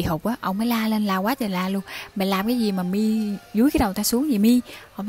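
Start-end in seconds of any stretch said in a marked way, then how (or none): 2.2-4.6 mildly raised, put-on yell; mock yell. Grandfather yells at whoever pushes his head underwater, mild mock yell. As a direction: act out a protesting shout, held back. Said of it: "la to luôn".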